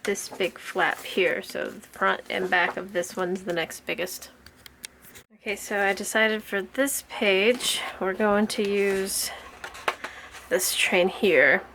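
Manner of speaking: panting between words; breathless from the heat; out of breath. Real, not acted. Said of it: "sorry for the panting".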